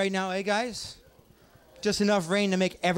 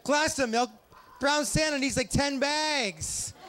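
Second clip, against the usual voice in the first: high, laughing mock shout; mock outrage; 7 semitones higher, slower than usual. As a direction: yell it in fake disbelief, cracking up. Outraged brown Santa joke.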